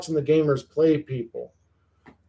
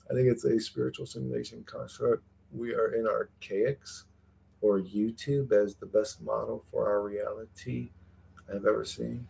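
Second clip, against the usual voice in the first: reading fancy talk aloud; 4 semitones lower, 10 dB quieter than usual. Retold or imitated. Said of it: "He loves talking like that".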